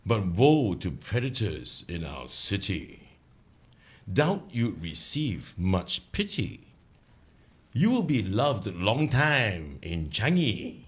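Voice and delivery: slow recited verse; poem recital. Shown as a demonstration. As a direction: recite the ditty slowly. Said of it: "Okay, I'm gonna start now".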